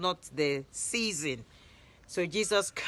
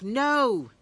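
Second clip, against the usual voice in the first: short, much higher and louder reply; a single loud called no; shouted back; 7 semitones higher, 6 dB louder than usual. A narrator's reading. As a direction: answer from the boat far out. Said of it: "they shouted back".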